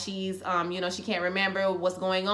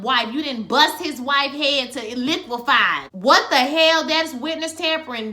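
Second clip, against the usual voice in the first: mock-outraged telling-off, punched words; retold rant with hammered emphasis; imitated screaming scolding; 3 semitones higher, 3 dB louder than usual. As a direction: scold him as if fed up. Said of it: "She's screaming at him like".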